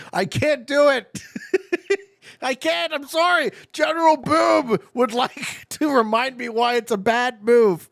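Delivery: high, giggly refusal; laughing protest. Real, not acted. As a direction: protest through real laughter, pitched right up. Cracking up while refusing the move.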